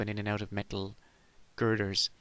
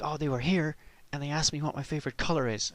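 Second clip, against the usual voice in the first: imitating Mulder; 4 semitones higher than usual. Mulder voiced.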